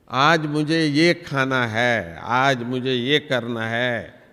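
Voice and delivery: slow, drawn-out voice of the craving mind; mind's slow craving. Retold or imitated. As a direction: let the mind linger over each want. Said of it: "इस जीव को भी कहता है". (धीमी, ललचाती मन की आवाज़)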